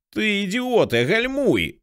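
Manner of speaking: very high, thin hysterical cry; panicked, reedy scream at a driver; thin hysterical shout. A narrator's reading. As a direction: shriek a frantic warning without much volume. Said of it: "кричав морський пес водієві лісовоза тонким істеричним голосом".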